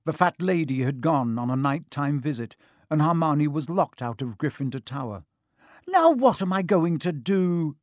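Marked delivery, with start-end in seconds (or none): 5.8-7.8 high, loud, panicky question; shrill exasperated demand. A narrator's reading. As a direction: wail it shrilly in dismay. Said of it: "she asked shrilly".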